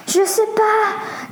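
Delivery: lente, plus aiguë, paniquée; la peur monte dans la voix; affolée. A narrator's reading. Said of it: "s'affola Leslie". (Leslie perdue dans le chaos, voix aiguë et affolée)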